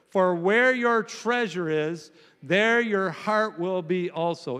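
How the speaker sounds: muffled, like through a wall. Real, not acted. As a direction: dull and muffled reading. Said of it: "You sound muffled this morning".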